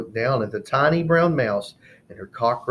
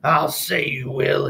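snorted; 4 semitones higher than usual. Acted. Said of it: "he snorted".

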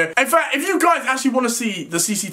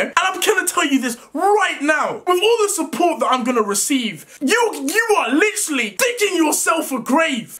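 raised, furious voice at the neighbours; angry rant; 5 semitones higher than usual. Real, not acted. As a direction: tear into them, shouting, real anger.

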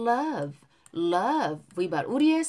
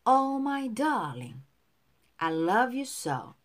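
pronunciation model. Shown as a demonstration. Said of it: "따라하세요". (따라 읽도록 천천히 또박또박)

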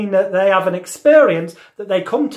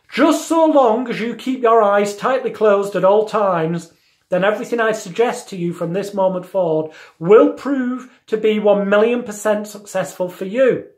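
mesmerizing; 3 semitones higher than usual. Shown as a demonstration. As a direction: speak like a hypnotist sealing the trance. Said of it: "we then use the phrase such as".

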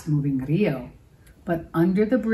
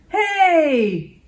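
loud, high roar of a grumpy troll; troll roar at the bridge; 9 semitones higher, 6 dB louder than usual. A narrator's reading. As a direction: bellow it at the little goat. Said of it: "roared the troll".

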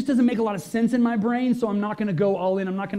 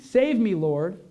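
mild, raised mock shout; a half-strength cry for rescue; shouting for help; much slower than usual. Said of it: "he shouted".

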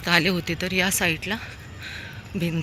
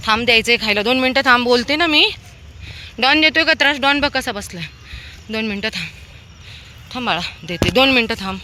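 higher and louder, coaxing the dogs to wait; excited pet talk; 6 semitones higher, 6 dB louder, faster than usual. Real, not acted. She calls the pushing dogs to wait for food, high and loud. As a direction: hold eager dogs back with a raised sing-song voice.

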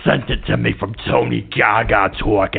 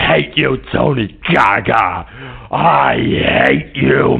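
crying shout; 2 semitones higher, slower than usual. Acted. Caller Alfonso shouting at host Tony Gaga through fake sobs. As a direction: wail I hate you through mock tears.

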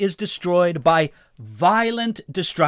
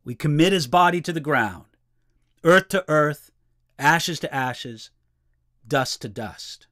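savoring the phrasing; 3 semitones lower than usual. Shown as a demonstration. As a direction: linger on each phrase, fading. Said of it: "that's just beautiful phrasing".

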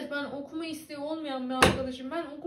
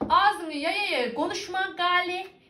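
reading a comment in Kütahya dialect; 4 semitones higher, 5 dB louder, slower than usual. Retold or imitated. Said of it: "demiş".

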